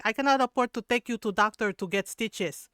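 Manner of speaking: loud mock-stern mother; scolding mom. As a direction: imitate mom warning the kids, loudly. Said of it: "she would be like".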